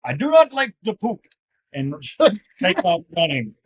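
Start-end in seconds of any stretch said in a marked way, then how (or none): 0.0-1.2 high, loud silly battle shout; war cry shout. Acted. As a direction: yell it as you charge. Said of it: "I'm gonna shout".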